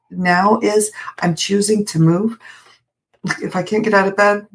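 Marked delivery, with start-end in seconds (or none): 1.3-4.5 talking through a yawn; words stretched by a yawn. Real, not acted. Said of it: "sorry, I'm yawning".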